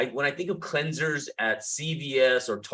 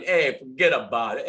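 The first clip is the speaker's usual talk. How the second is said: Italian; 2 semitones lower than usual. Pretend. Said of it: "maybe I'm Italian".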